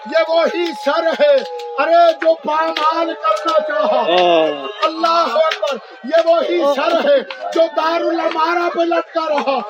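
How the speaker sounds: declaimed Urdu majlis oratory; majlis lament preaching. Real, not acted. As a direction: preach the martyrs' grief to a crowd.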